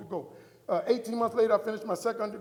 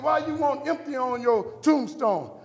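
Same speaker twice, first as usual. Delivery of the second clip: high, loud, drawn-out question; loud disbelief; 5 semitones higher, 9 dB louder than usual. Retold or imitated. Wife questioning the word for the tombstone, loud and incredulous. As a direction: ask it slowly at full volume. Wife's baffled question, acted out.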